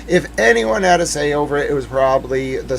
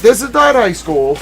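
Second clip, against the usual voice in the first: higher, louder scold; fed-up, raised-voice reprimand; exasperated scolding; 6 semitones higher, 5 dB louder than usual. Retold or imitated. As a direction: tell them off like a fed-up teacher. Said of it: "I was like".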